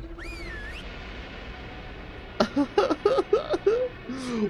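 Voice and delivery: long squealing high laugh; helpless high laughing fit. Real, not acted.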